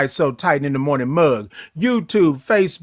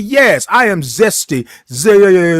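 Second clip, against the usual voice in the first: proud declaration; 6 dB louder, slower than usual. Real, not acted. Proudly declaring himself zesty.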